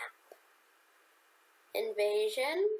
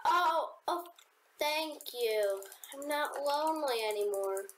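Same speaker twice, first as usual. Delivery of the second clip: excited gasp; 5 semitones higher than usual. Real, not acted. Someone joins the match.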